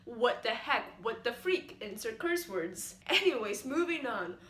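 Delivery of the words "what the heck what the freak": shocked surprise. Acted. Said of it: "implies a surprise, a shock".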